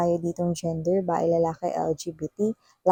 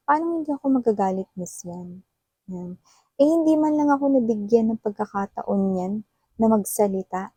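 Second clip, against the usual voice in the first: quick, pitched-up indignant client, fired at the reader; imitating an upset client; 2 semitones higher than usual. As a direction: play the wronged client protesting. Client voiced complaining to reader.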